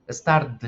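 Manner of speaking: "start" said "stard", voiced D at the end. Shown as a demonstration. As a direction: soften the last T of "start" into D. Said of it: "sonido de D".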